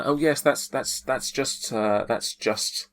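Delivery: hesitant, stumbling character reply; flustered excuse. Acted. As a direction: stammer out a lightly acted excuse. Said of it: "shakes it a little bit and says".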